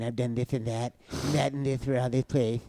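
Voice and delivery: Cody impression with a mouth full of peanut butter. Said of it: "That doesn't even sound like me".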